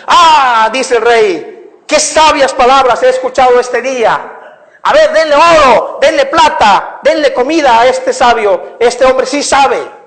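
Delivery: reward the wise man with delight; delighted king. Acted. King rejoicing at the wise man's words.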